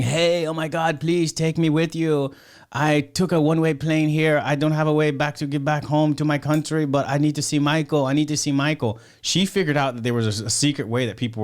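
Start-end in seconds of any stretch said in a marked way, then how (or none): 0.0-9.0 higher, begging stranger at the car door; desperate pleading fan. Retold or imitated. Stranded fan begs the riders in the limo, pleading high. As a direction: beg to be let in, voice lifted and urgent.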